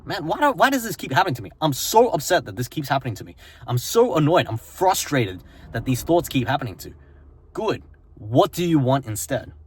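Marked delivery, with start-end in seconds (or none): 0.1-6.9 a touch of frustrated venting; fast, frustrated grumble; mock frustration. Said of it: "getting really upset".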